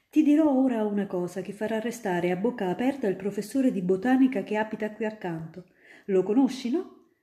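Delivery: put-on a grown-up spinning tales for a child; student eagerly convincing little Ida; storytelling student. Student plots trick.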